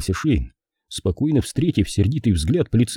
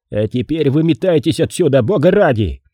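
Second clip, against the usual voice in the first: higher-pitched, urgent dismissal; exasperated order; 6 semitones higher, 4 dB louder than usual. A narrator's reading. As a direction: get him out before the fight starts. Gentry orders policeman out. (раздражённое распоряжение повышенным тоном)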